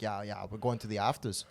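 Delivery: badly faked Irish accent. Irish friends announcing afters, half-hearted Irish accent. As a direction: attempt an Irish lad's accent and fumble it. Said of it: "I can't do an Irish accent, but it's my Irish accent".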